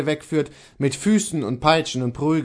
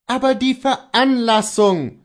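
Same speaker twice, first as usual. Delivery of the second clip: urgent call; 10 semitones higher, 5 dB louder than usual. A narrator's reading. Master presses his servant for the cause, calling out high. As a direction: cry out, demanding the reason. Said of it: "rief Kohlhaas".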